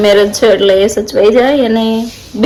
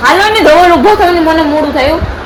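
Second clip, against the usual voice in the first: laughing and higher as she hurries him; giggling high call to get up; 5 semitones higher than usual. Real, not acted. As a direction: laugh through the words. Laughing while hurrying husband.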